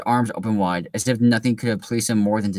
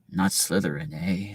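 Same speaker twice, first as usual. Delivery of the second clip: sorting hat; 2 semitones lower, 5 dB quieter, slower than usual. Acted. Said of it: "said the small voice".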